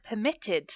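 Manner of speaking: "permitted" with the weight after the first syllable, on MIT; stress on later syllable. Shown as a demonstration. Teacher letting learners hear the emphasis, "permitted" stressed on MIT. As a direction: punch the middle of "permitted". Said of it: "you can hear the emphasis on the end".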